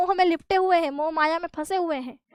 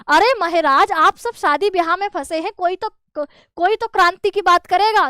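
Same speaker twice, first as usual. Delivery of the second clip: louder, exasperated scolding; irritated outburst; 3 semitones higher, 5 dB louder than usual. Retold or imitated. Student scolding the scholars, irritated and louder. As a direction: snap at the elders in mock irritation. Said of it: "आपकी झल्ला कर बोले".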